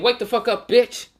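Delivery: high, loud furious shout; angry yell. Acted. Naruto yelling at Gaara to wake him up, high and loud. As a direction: scream him awake. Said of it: "waking him up and saying".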